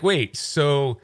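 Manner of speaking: can't believe what he's hearing; baffled caller. Retold or imitated. Comedian reacts to the machine gun offer, baffled and high. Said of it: "he's like".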